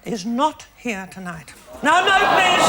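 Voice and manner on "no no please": calling out. Acted. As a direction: wave the crowd down. Hushes applause for Madge.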